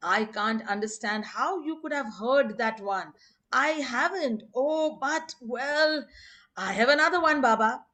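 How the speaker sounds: put-on Delia's English accent. Delia defends her joke to Baba, imitated uneasy English accent. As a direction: plead lightly in an English accent, rising as it goes. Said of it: "imitated Delia's distinctive English accent and uneasy".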